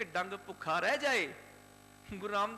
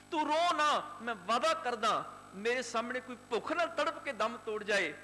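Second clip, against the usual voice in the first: higher, louder, urgent plea to stop her tears; the grandson begs her not to cry; pleading boy; 4 semitones higher, 4 dB louder than usual. Acted. Boy begs his crying grandmother. (ਤਰਲੇ ਨਾਲ ਉੱਚੀ ਬੇਨਤੀ)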